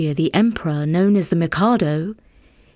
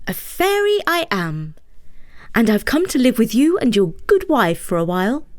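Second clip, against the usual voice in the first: fairy voice; 3 semitones higher than usual. Acted. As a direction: speak as the small fairy. Fairy speaks in story.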